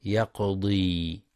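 يقضي with an added long ي, slowly; wrong long i. Shown as a demonstration. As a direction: say يقضي with the extra ي, as the mistake. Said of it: "هكذا".

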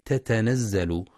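"تتنزل" said slowly with two distinct t sounds at the start; wrong reading. Shown as a demonstration. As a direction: demonstrate the student's mistake: "تتنزل" with a doubled ta. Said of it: "يخطئ بعض الطلاب فيقرأ ... بتاءين".

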